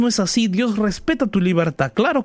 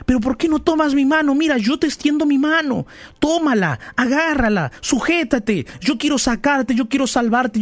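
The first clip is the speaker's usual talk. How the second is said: pleading God; 6 semitones higher than usual. Pretend.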